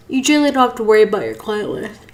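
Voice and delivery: talking through a yawn; words stretched by a yawn. Real, not acted. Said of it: "I am so sorry for yawning".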